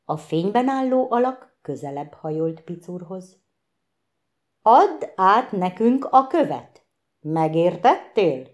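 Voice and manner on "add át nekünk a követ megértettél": louder, insolent hissed demand; a kobold hissing threats at the elf. Acted. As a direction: lean into his face and hiss it. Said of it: "sziszegte a manó arcába szemtelenül".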